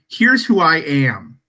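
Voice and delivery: no qualms. Acted. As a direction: state who you are with no hesitation, weighting each word. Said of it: "Hathaway has, has no qualms going".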